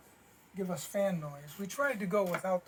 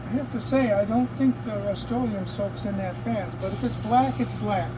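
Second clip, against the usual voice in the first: louder, raised voice over the fan noise; talking over fan; 4 dB louder than usual. Real, not acted. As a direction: project to be heard above the booth fan. Talking over paint booth fan.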